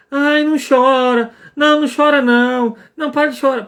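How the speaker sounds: mock parent hushing a crying child; mock shushing parent.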